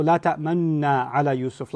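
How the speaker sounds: "ta'manna" with rounded lips and no u; "La ta'manna ala Yusuf" with lips rounded; silent dhamma. Shown as a demonstration. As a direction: shape the dhamma on "ta'manna" but don't voice it. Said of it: "facial expression of a dhamma without saying".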